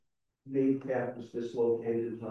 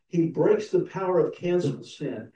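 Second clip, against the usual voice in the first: louder, ringing proclamation of breaks; proclaimed hymn line; 4 semitones higher, 5 dB louder than usual. Shown as a demonstration. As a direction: declare he breaks the power out loud to the church. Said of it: "we sing the hymn".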